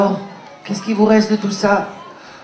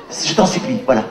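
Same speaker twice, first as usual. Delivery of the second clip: lower, fast and soft; pleading old man; 10 semitones lower, 4 dB quieter, faster than usual. Acted. Old Abraham Pinchas begs the boy to take money, low, soft and hurried. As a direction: press the money on him, begging.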